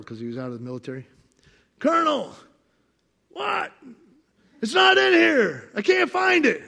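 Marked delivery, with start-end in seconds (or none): 1.8-6.6 high, loud anxious call; panicked calling out. Retold or imitated. Worker calling to his boss, high and flustered. Retold self pleading to boss.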